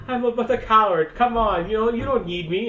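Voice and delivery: high-pitched mock pleading; imitated whiny excuse-making; pleading coward. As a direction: beg off like a reluctant farmer. Voices the reluctant farmer pleading.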